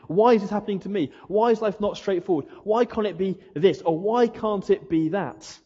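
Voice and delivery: exasperated pleading prayer; complaining why God. Retold or imitated. Preacher voicing a frustrated believer's complaint, pleading.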